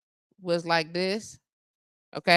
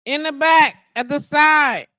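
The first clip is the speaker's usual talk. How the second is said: raised, louder call; calling out directions; 5 semitones higher, 8 dB louder than usual. Real, not acted. Directing a visitor round the back, calling out. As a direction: holler directions through the door.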